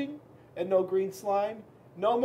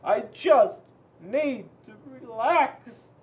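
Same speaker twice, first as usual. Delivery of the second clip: slow; 4 semitones higher, 4 dB louder, much slower than usual. Acted. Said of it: "I can't relax".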